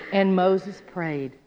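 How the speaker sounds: slow, subdued recital of a prayer; a measured, uneventful statement; understated prayer. Shown as a demonstration. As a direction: read it slowly, without any passion. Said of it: "He didn't just".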